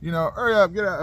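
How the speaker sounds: half-hearted New Yorker impression; attempted New York accent. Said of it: "I can't do the New York accent".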